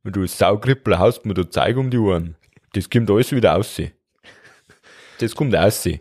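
put-on lightly done Bavarian-accented stomach complaining. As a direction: tell him off in broad Bavarian. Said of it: "bei mir redet er auch bayerisch".

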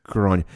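Grania said as GRAWN-ya; "Grania" with a long open first vowel; correct pronunciation. Shown as a demonstration. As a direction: correct "Grania" firmly, rhyming with Narnia.

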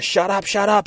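high-pitched acted outburst; frantic demand. Junkie with gun cracking under taunts, frantic demand. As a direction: jump up in pitch, desperate to silence her. Gunwoman at breaking point.

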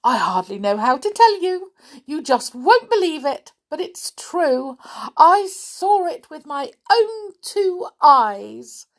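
high, breathless excited gush; Little Miss Chatterbox, very excited. Acted. Chatterbox telling her friend of an amazing sight, very excited. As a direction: pile it on, bursting to reach the big news. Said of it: "a very excited little Miss Chatterbox".

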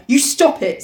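high, mildly shrill protest. Acted. Piggy telling Ralph off, mildly shrill. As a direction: raise the pitch in sharp protest. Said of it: "said Piggy shrilly".

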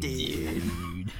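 lightly voiced laid-back surfer; surfer dude voice. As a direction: drawl it like a chill surfer. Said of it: "Surford Bro voice".

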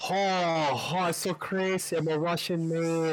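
high-pitched mock East Asian accent; a joking East Asian accent put-on. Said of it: "Make fun of him with the fucking Asian accent".

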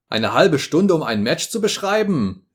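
indignant outburst. A narrator's reading. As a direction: throw it back in outrage. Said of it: "rief ich ungehalten".

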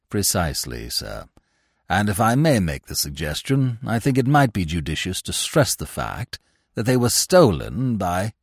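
deferential, measured and pitched well down; imperturbable valet. Acted. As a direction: discreet servant in a low, even voice.

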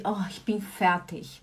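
soft, weary Oh, ich bin fertig; tired sigh. Pretend. Wife acting out coming home tired, softly. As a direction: sigh it out, worn down. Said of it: "eu falo assim".

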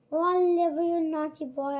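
Nancy's high, loud fake scolding; high mock scolding. Nancy pretends to scold Oliver before the crowd, high and loud. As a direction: scold him sweetly but loudly for the crowd.

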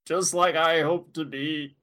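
put-on slow, frail old lady voice; very old faint voice. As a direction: Ernest playing a feeble granny. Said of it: "That's my Ernest impression".

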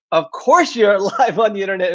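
lightly imitating kids' mocking, laugh in the voice; mildly mock it with a chuckle; teasing mockery. Kids making fun of their parent's livestream line, lightly teasing. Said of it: "laughed and made fun of me".

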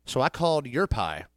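ordinary delivery

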